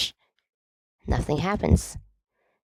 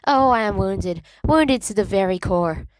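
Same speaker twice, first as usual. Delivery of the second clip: moaning theatrically; 6 semitones higher than usual. A narrator's reading. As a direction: overplay the betrayal. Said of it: "James moans".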